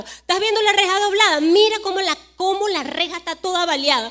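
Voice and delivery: the host urgently pointing out bullet-riddled houses; alarmed warning. Retold or imitated. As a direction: rush to show her the danger. Host warns of bullet holes.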